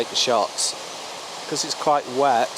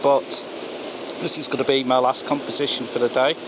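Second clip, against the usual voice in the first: raised voice over a roaring waterfall; beside rushing river. Real, not acted. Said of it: "I've no idea if you can hear me over the waterfall here".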